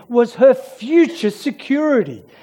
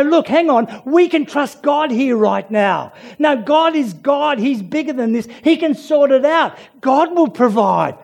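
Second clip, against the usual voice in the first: confident reassurance; 4 semitones higher than usual. Retold or imitated. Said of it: "There, there is no".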